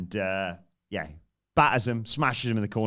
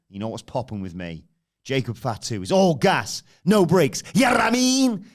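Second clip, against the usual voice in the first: Jacob Fatu angry promo; 3 dB louder than usual. Retold or imitated. Jacob turning on Solo and challenging him, angry shout. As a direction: confront him, louder and angrier as it goes. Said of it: "Jacob comes out".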